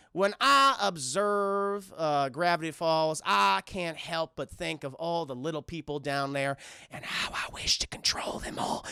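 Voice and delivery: slow, drawn-out villain musing; Gideon. Retold or imitated. Gideon confiding to Mabel, slow then hushed and menacing. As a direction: sink into a hushed scheming voice by the end. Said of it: "And Gideon's like".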